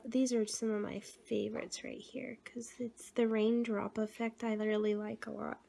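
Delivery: hoarse, failing voice breaking into whisper; voice giving out. Real, not acted. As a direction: voice cracking and fading to breath. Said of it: "Sorry about my voice".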